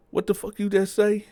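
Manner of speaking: high-pitched, affronted question; loud challenge. Retold or imitated. Bo confronted with the accusation, loud challenge. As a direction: snap back as if insulted. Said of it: "he said it kinda loud".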